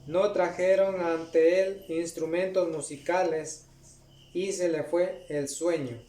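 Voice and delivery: measured, solemn Bible reading; scripture reading. Acted. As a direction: read the verse to the congregation with gravity. Reads scripture aloud.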